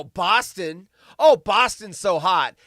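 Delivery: hammed-up fake admiration; mock swooning. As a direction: pretend to be thrilled by it. Mocks someone swooning over Boston accent.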